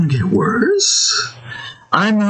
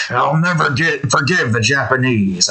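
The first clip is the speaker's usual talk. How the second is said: a lightly voiced cartoon caveman, barely off the own voice; a faint hint of a blustering cartoon dad; Fred Flintstone. Quoting a fan's grudge in a faint Fred Flintstone voice. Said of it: "I went full on Fred Flintstone there".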